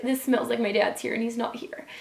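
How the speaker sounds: tearful. Real, not acted. Tears running down her face.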